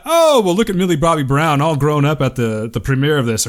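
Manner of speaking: put-on light, polite old-guy tone; innocent exec voice. Shown as a demonstration. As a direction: say it like a harmless proud uncle. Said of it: "But did he say it like this".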